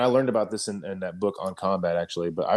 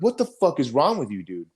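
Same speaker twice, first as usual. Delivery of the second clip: raised, exasperated comeback; retold angry retort; 5 semitones higher than usual. He snaps back at the lieutenant, raised and exasperated. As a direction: throw it back at him, heated. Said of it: "I'm like".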